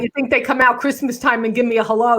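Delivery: lightly voiced dad from a one-person show; garbage man dad. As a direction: play the griping garbage man father. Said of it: "whenever I would become, uh, dad".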